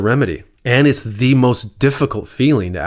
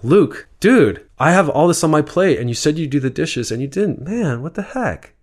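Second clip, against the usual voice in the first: higher, heated but caring complaint; clean anger; 6 semitones higher than usual. Shown as a demonstration. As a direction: voice frustration while keeping the heart in it. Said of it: "So clean anger is different".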